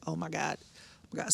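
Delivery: soft whispered oh my gods; softly panicking to herself in the car; whispered panic. Retold or imitated. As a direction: whisper it under your breath, scared. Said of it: "just like".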